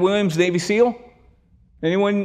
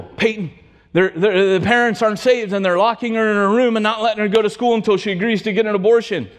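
retold hysteria; 3 semitones higher than usual. Upset teen's family friend calls the youth pastor, retold hysterical. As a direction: rush out the trouble as an upset caller, not full-out. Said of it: "and Gina's hysterical".

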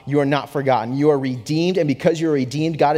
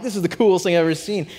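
going nuts; 4 semitones higher, faster than usual. Retold or imitated. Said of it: "And I'm going nuts".

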